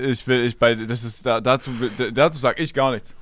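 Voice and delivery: nose held shut while talking; nasal voice. Real, not acted. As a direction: talk with your nose pinched closed. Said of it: "Er hält sich die Nase zu".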